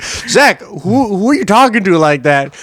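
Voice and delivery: high-pitched manager demanding an answer; imitating an appalled boss; scolding manager. Manager questioning Zach about his talk, high appalled voice. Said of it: "His manager would be like".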